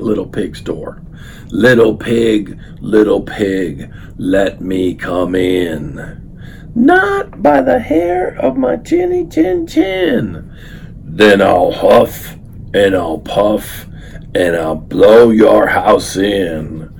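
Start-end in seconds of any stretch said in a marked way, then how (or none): 1.5-6.2 slow, drawn-out wolf call; wolf at the second door, slow. Acted. 6.7-10.5 much higher, slow pig voice; second little pig refusing, high and slow. Acted. Second pig answers the wolf. 11.0-16.9 slow, louder wolf voice; wolf threatening the second pig, slow and louder; wolf threat. Acted.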